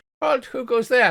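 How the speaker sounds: high, sudden shout. Narrating a game scene, the tower challenges arrivals in town: God Tower voice shouting. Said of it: "from a God Tower voice shouts".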